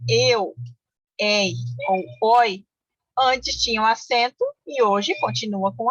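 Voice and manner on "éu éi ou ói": "eu", "ei", "oi" said slowly with open vowels, éu, éi, ói; slow, separated "eu, ei ou oi", each diphthong wide open. Shown as a demonstration. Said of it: "que tem o ditongo aberto".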